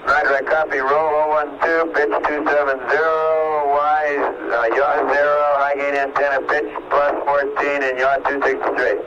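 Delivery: crackly spacecraft radio transmission; astronaut radio. Real, not acted. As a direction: voice over a distant radio link. Astronaut reads back over radio.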